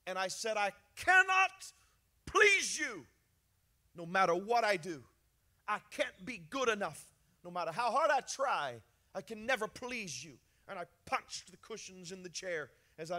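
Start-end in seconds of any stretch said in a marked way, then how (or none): 0.6-10.4 desperate plea shouted up to God; retold scream to God. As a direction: cry it out in despair. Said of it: "I screamed".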